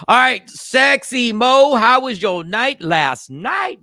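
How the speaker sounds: slow, loud call-out. Real, not acted. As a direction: stretch it out, loud. Calling out to Mo.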